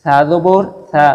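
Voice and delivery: সা said thin and light, not heavy; slow light Arabic syllable drill. Shown as a demonstration. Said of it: "সাটা একটু পাতলাভাবে পড়বো".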